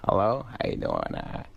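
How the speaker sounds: lightly voiced goofy comedian on the phone; a hint of a celebrity impression; Adam Sandler. Sandler answering the phone to Jimmy, lightly imitated. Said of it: "Adam got on the phone".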